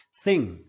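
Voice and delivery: सिंग ending in a nasal ng; silent g. Shown as a demonstration. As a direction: say सिंग without sounding the g. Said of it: "इसमें ग नहीं बोला जाएगा". (सिंग, आख़िर का ग बिना बोले)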